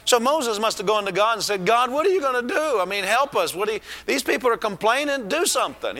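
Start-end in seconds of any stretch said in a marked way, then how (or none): 1.7-6.0 desperate complaining. Retold or imitated. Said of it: "He must have been talking like that to God".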